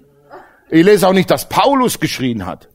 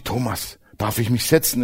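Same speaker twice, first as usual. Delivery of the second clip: softer, lower, timid asking; a shy guest asking permission, much softer; 4 semitones lower, 7 dB quieter than usual. Retold or imitated. Guest asking Thomas for a seat, timid and soft.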